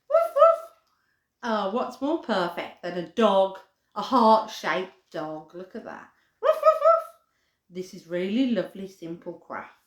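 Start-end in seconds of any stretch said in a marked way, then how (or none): 0.1-0.6 higher yappy barks, fading to plain; playful dog barks. Pretend. Barking for heart doggy. 6.4-7.0 higher yappy barks, fading to plain; playful dog barks. Pretend. Barking for heart doggy.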